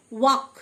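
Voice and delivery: "ওয়াক" with the L left unsounded; silent L. Shown as a demonstration. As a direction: say "ওয়াক" with no L before the K. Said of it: "এল silent". ("ওয়াক", এল উচ্চারণ না করে)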